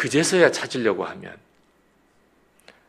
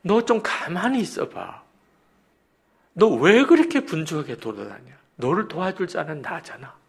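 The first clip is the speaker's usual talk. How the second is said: higher-pitched, lightly voiced divine rebuke; raised, insistent parental chiding; the Lord's chiding; 6 semitones higher, 4 dB louder than usual. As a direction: gently act God telling off a restless child. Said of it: "주님이 목사님에게 말씀하시는 것을".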